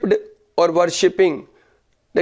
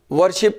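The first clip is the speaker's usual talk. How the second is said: "वर्शिप" in two separate parts, वर, pause, शिप; broken into syllables. Shown as a demonstration. Teacher showing syllable count, "वर्शिप" split as वर - शिप. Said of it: "को रुक के पढ़ें".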